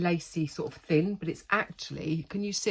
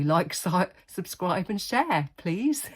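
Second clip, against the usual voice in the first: laughing plea; 2 semitones higher, slower than usual. Real, not acted. Laughing request.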